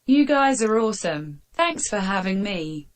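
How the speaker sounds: text-to-speech reading; synthetic donation reader; robot voice read. Acted. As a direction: read it out like a computer voice. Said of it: "Let Friday read it out".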